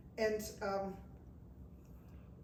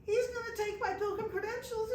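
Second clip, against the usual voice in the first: worried thought; 12 semitones higher than usual. Retold or imitated. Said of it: "So I'm thinking".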